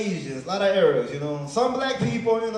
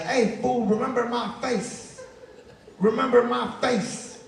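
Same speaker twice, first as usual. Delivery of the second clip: lightly voiced street tough, a touch higher; higher mock yell from a car window; mock gangbanger yell; 4 semitones higher than usual. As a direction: call out a threat from a passing car, hammed-up. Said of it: "just kept yelling".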